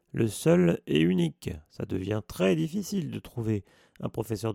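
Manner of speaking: lightly voiced gamekeeper, annoyed and scoffing; grumbling Hagrid. Gamekeeper scoffing at the new teacher to the children, indignant.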